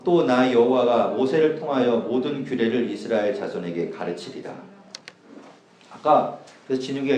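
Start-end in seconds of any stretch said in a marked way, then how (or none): 0.0-4.5 slow, measured Bible reading aloud; scripture reading. Acted. Preacher reads God's command to Aaron to the congregation, solemn scripture reading. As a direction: read out the verses emphatically, at a slow pace.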